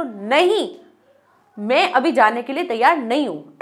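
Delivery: emphatic "नहीं" then firm refusal; refuse, fed up; annoyed, forceful no; irritated refusal. Shown as a demonstration. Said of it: "परेशान होके, irritate होके".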